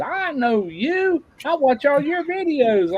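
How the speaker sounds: high, slow starstruck lady voice; mimicking the cashier. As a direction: gush it out like an excited fan.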